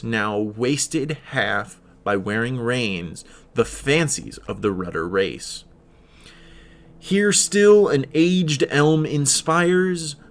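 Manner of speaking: slow, measured reading of verse; poem recitation. Acted. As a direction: read the poem with weight and pauses. Reads a poem aloud.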